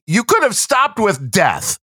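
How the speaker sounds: dry, slow sarcastic jab; drawn-out deadpan sarcasm. Retold or imitated. Sarcastic retort to label.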